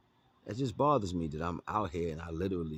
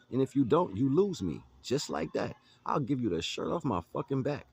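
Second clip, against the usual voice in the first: high, louder ultimatum; heated warning; 7 semitones higher, 4 dB louder than usual. Retold or imitated. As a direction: raise the voice, final warning. Scolding the guy in the retold quote.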